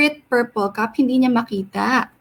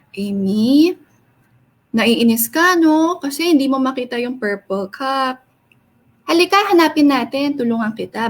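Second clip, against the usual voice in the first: gentle voice. Shown as a demonstration. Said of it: "he was using a gentle voice".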